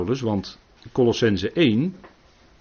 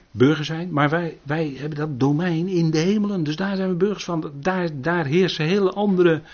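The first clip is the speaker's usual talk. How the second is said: raised, higher preaching voice; fervent preaching; 6 semitones higher, 6 dB louder than usual. Acted. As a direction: preach it out with full conviction. Preaching with rising force. (vurig preken met verheven stem)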